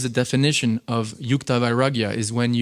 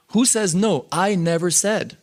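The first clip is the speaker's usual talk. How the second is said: higher challenging question; defiant retort; 6 semitones higher, slower than usual. Retold or imitated. Quoting the guru challenging his disciples, higher and defiant. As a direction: throw the question back defiantly. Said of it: "And then he says".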